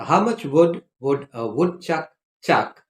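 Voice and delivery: careful, evenly spaced words; distinct words, pause before the last one; measured tongue-twister pace. Shown as a demonstration. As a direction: demonstrate the tongue twister without rushing. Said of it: "read it at the correct pace".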